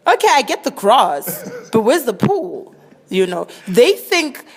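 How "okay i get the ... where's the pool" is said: higher, louder comic protest; baffled rich child. Acted. Comedian playing rich kids puzzled by houses without pools, baffled. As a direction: protest in mock bewilderment, pitched up. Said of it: "their babies don't understand how some houses".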